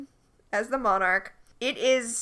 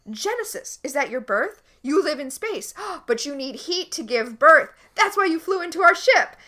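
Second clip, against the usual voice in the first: hammed-up eureka moment, rising louder and higher; excited mock deduction; 3 semitones higher, 4 dB louder than usual. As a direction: blurt out each wild guess like a revelation. Acting out John's eureka guessing.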